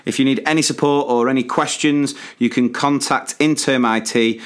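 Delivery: even, scripted ad delivery; measured podcast advert voice; sponsor read. Acted. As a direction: read the promo clearly and evenly. Reads a sponsor message.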